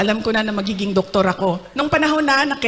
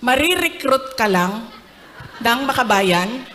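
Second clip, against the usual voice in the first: mock angry father, rising to a yell; scold, then bark the last line; building to a retold shout; 3 semitones higher than usual. Father forbids her from UP, angrily. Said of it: "Galit si P R D".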